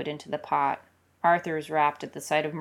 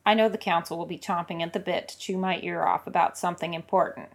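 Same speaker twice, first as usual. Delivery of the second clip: quick, made-up excuse; improvising an excuse; faster than usual. Acted. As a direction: rattle off a fast improvised excuse. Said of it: "he extemporizes".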